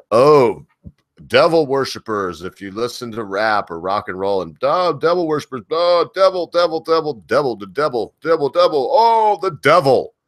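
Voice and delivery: high, hammed-up panicked churchgoer; mock the fearful preacher, pitch climbing; mocking Christians. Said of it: "they're out there and they're like".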